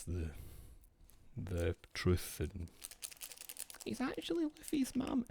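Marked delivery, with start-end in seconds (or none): 3.8-5.3 mock reveal.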